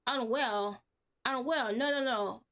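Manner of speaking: lightly voiced eccentric stranger, fussy and chattering; a hint of a strange, rambling old man; odd stranger voice. A confused stranger brushing off concern, lightly odd.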